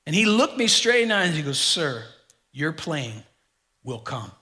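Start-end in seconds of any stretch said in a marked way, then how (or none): 1.6-4.3 low, calm, certain reassurance; authoritative assurance. Retold or imitated. Gate agent assuring the worried traveler, calm authority. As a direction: settle it with quiet authority. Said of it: "he said it with authority".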